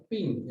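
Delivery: a quick, short "pin" falling off; short ping sound. Shown as a demonstration. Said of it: "es así nomás". (un "pin" corto que cae)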